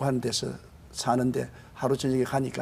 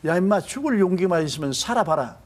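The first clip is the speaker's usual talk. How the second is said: higher, louder commanding call; voice from heaven; 5 semitones higher, 4 dB louder than usual. Retold or imitated. God's voice thundering at the despairing pastor. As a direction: boom it out like a voice from above. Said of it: "벌떼 같은 소리가 들려와요".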